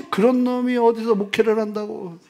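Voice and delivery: mock angry father. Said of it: "막 이러신단 말이에요".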